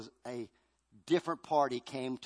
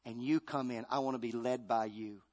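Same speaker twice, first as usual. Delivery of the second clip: soft prayer; 4 semitones lower, 4 dB quieter than usual. Acted. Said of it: "I say".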